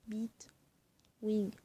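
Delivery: Bitwing whispered, no voice. Shown as a demonstration. Repeating the word for viewers in a whisper. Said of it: "repeats word to the device".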